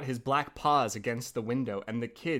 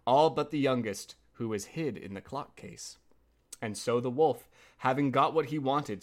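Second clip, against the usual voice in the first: measured fairy-tale read-aloud; story narration. A narrator's reading.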